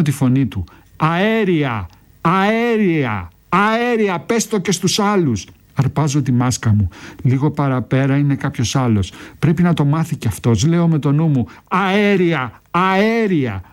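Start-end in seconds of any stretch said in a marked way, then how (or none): 1.0-5.5 rising urgent shout, each call higher; shouted warning. Acted. Comrade shouting the gas alarm to the narrator, rising shout. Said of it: "φωνάζει". 11.7-13.6 high urgent shouted warning; shouting the alarm. Acted. Soldier shouting gas warning to a young recruit, high urgent call. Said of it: "Φωνάζω".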